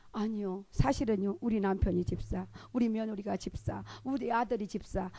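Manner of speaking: soft, low admission; sheepish confession. Acted. Deacon admitting the whole family are deacons, sheepish. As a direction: own up quietly, item by item.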